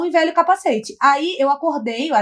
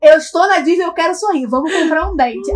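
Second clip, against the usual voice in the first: retold declaration; 3 semitones higher, 5 dB louder than usual. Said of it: "Aí eu falei".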